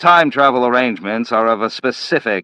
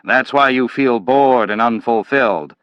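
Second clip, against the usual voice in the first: louder, higher contemptuous lecture; scornful scolding; 4 semitones higher, 3 dB louder than usual. Acted. Manville berating Slade for being passive, loud and scornful. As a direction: jab each question at him.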